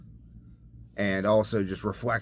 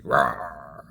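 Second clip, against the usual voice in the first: mock growl; 6 semitones lower than usual. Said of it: "more awake and, like".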